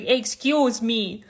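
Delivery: lightly mocking Czech accent, drawn out slowly; mocked Czech accent. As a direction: imitate her Czech accent, slow and mocking. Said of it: "you know, with her awful accent".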